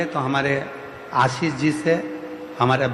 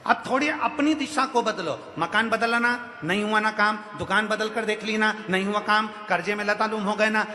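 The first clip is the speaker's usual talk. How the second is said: higher-pitched rhythmic sermon list; preaching litany; 5 semitones higher than usual. Acted. Preacher listing every failed remedy to troubled devotees, higher-pitched preaching litany. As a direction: preach it as a relentless, repetitive litany. Preacher presses the same point.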